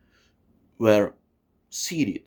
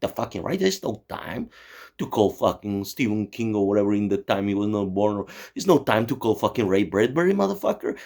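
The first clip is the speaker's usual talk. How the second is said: exasperated Kennedy. Retold or imitated. Kennedy yelling at the CIA director, hammed-up exasperated outburst. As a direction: play a harried president losing patience. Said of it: "Kennedy was like".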